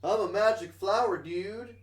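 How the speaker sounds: high, swooping voice of an attention-seeking flower; mock calling out. Magic flower calling to the player, mock high call. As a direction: pipe up high as if hailing someone. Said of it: "screams out and goes".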